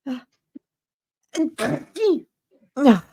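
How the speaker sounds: sharp sneeze gasps; gasping before a sneeze; pre-sneeze gasps. Real, not acted. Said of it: "je vais éternuer".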